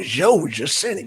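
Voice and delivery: Southern Georgia accent, "Georgia" said as "Joe-juh" with no r. Shown as a demonstration. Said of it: "y'all like my accent".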